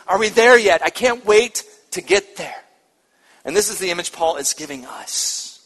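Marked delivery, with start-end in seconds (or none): 0.1-2.6 eager, bright and loud; excited child. Shown as a demonstration. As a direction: bounce with excitement to arrive. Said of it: "it's that excitement".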